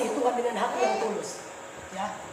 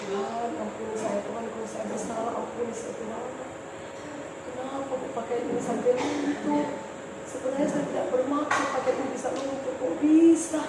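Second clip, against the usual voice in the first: tearful prayer; 6 dB quieter than usual. Retold or imitated. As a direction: pray quietly to God as if holding back tears. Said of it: "Saya menangis".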